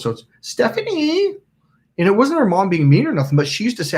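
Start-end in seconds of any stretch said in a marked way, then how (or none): 0.4-1.4 very high, drawn-out name call; mom's calling voice. Retold or imitated. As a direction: imitate a mother calling out in sing-song. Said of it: "I can't quite do it, but I'm close".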